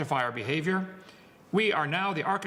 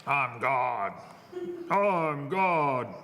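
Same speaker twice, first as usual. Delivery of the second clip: lightly voiced boastful self-proclaimed god; mock arrogant man; 2 semitones lower, much slower than usual. Preacher mocks people who think they're God, in a mild mock boastful voice. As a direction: puff yourself up like a man who thinks he's divine. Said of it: "Some people think".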